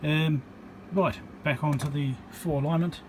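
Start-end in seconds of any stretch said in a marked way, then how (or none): none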